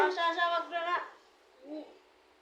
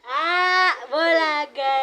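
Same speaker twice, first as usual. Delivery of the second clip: playful peekaboo; 6 dB louder than usual. Acted. Peekaboo game with baby.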